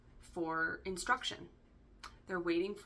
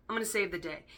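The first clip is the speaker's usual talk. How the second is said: Nicolas Cage impression; 4 dB louder, faster than usual. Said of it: "I'm already doing it in his accent".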